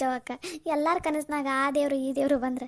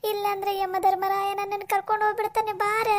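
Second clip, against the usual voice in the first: crying out for help. Acted. Dreamer cries to neighbour for rescue from Yama, wailing. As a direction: wail for someone to come and save you. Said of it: "ಎದಕ್ಕೆ ಪಂಚವ್ವ ಒದರಾಡ ಕುಂತಾಳ".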